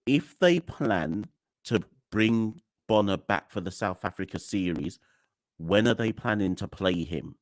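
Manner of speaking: crackling mic; distorted crackly mic audio; crackly usb mic. Real, not acted. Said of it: "Pink Spaghetti says my mic is crackling a bit".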